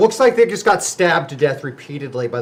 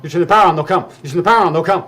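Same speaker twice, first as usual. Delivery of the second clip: frightened; 3 semitones higher, 6 dB louder, faster than usual. Acted. Hysterical survivor warning.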